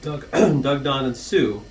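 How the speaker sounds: rhythmic rhyming verse, read as a toast; poem recital. Acted. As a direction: recite the family poem with a gentle lilt to the rhymes. Reads rhyming anniversary poem.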